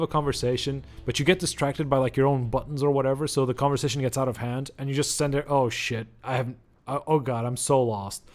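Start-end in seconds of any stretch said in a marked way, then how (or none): none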